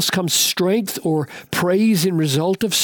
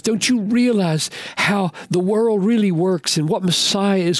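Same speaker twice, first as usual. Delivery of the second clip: Jesus rebuking priests; 4 semitones higher than usual. Acted. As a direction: press the scribes with pointed questions.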